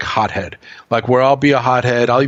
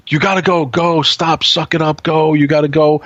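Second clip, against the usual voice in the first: higher-pitched mock nagging; insistent nagging; 4 semitones higher than usual. Girlfriend nagging him to see the doctor, insistent. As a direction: imitate her pushing you to go.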